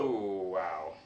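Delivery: loud, drawn-out ooh and wow; stunned by the bad luck; stunned reaction. Real, not acted. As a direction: react aloud to a terrible roll. Reacting to a terrible dice roll.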